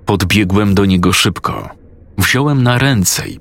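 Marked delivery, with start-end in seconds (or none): none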